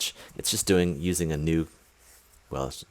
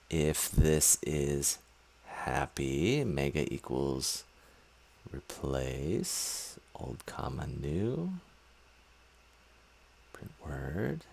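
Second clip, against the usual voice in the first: dictating; 3 semitones lower, 7 dB quieter, much slower than usual. Real, not acted. Typing code while saying it aloud.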